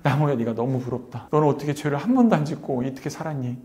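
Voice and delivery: understated tearful lament; a touch of crying, retold; retold tearful envy. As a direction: softly address the tree as if weeping. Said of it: "볼을 비비면서 막 울었어요".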